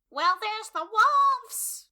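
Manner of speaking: high, loud, slow sneering cry; mock Cersei. Friend mocking Cersei's spiteful cry, high loud slow. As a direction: drag it out like a spiteful queen. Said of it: "Cersei has to open her frickin' mouth".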